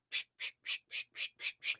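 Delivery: rapid soft "psh" puffs; imitated shoving noise. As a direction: mime cramming food in with repeated psh sounds. Imitating cheese being shoved in mouth.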